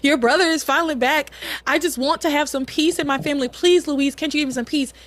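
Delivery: retold pleading, mildly urgent; lightly acted plea; begging. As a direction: imitate a mother begging her son for peace. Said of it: "Pilar is begging Luis".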